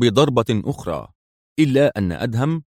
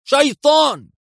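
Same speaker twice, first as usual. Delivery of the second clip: شيطان screamed higher and louder; panicked shriek; 4 dB louder than usual. A narrator's reading. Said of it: "ثم هتف في عصبية". (صرخة ذعر أعلى وأقوى بكلمة شيطان)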